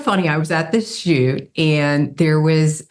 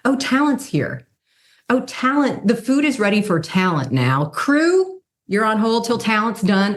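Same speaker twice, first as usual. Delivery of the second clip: lightly put-on high fawning assistant, higher; mock fussy crew voice; 7 semitones higher than usual. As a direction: ham up the eager set crew calling for talent. Mocking how crew address models.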